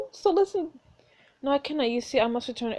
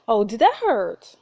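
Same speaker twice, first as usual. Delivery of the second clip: taunting; 7 dB louder, slower than usual. Real, not acted. Taunting the duke.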